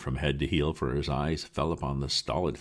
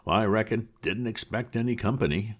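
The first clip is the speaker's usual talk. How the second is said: sneering bystander; 8 semitones higher, 3 dB louder than usual. Acted.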